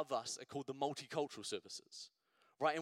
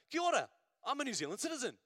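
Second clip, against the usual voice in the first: eager new citizen; 7 semitones higher, 3 dB louder, much faster than usual. Retold or imitated. New citizen greets you eagerly.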